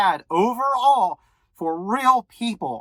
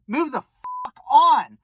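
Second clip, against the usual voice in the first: fed-up; 3 semitones higher, slower than usual. Real, not acted. Fed-up dismissal of the God question.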